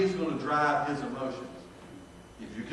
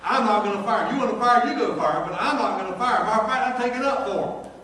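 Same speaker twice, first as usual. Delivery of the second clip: louder, higher retelling of standing his ground, half laughing; retelling refusing the executives, defiant and laughing; defiant retort; 4 semitones higher, 5 dB louder than usual. Retold or imitated. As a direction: push back at the bosses with a grin. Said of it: "I said".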